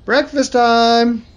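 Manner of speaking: loud, slow, high sing-song call. Acted. Dad calls everyone to breakfast, loud slow call. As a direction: call the whole house to the table.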